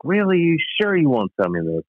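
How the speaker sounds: high, disbelieving plea for the moose; mock disbelief, leaning on Really; incredulous pleading. Storyteller begging shopkeepers to sell him the moose, incredulous. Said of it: "I was like".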